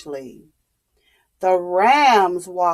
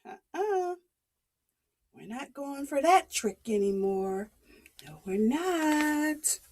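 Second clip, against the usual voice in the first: dismissive; 4 semitones higher, 9 dB quieter than usual. Acted. Villagers refusing.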